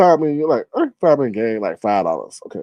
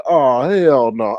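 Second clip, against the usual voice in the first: indignant; much slower than usual. Retold or imitated. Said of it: "And I was like".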